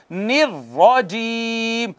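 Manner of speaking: निर्रजीम with a heavy, struck र, slow; slow, thick निर्रजीम; heavy recited rajim. Shown as a demonstration. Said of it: "मोटी पढ़ी जाती है".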